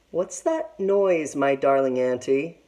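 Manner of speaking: slow, wary question; suspicious. Acted. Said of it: "Big Sister asked suspiciously".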